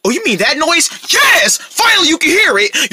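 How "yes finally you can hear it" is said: high, relieved excited shout. Acted. Friend finally believed about the noise, shouting with relief. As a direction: shout it right in their ear. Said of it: "Quit shouting in my ear".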